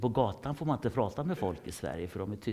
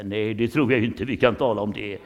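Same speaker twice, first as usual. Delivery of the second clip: louder, firm mock boss refusal; personnel manager refusing; 10 dB louder than usual. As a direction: brush off the request like a boss. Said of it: "personalchefen säga". (högre, bestämd chef som avböjer)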